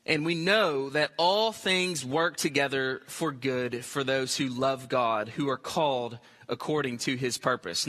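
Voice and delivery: unhurried low-voiced Bible reading; scripture reading. Real, not acted. Reading the Bible verse aloud.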